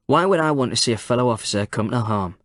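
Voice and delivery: flat, even and unbothered; deadpan. Acted. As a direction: give nothing away in the voice. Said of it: "in a deadpan voice".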